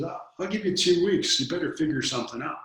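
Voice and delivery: a hint of a stern father setting a deadline; stern dad ultimatum. Dad, no nonsense, gives ultimatum.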